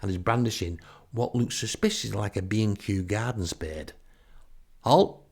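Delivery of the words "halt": high, loud challenge; chainmail knight. Acted. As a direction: call out like a self-important knight. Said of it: "has a Cornish accent thicker than clotted cream".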